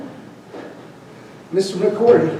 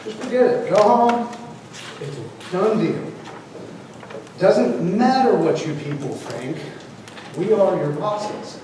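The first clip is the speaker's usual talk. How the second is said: mock arrogant official. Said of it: "That's what it sounds like".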